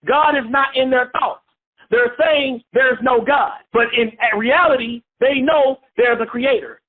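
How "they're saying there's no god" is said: slow, shouted and drawn out; emphatic shout. Real, not acted. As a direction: call it out slowly to the class. Preacher stressing atheists' denial.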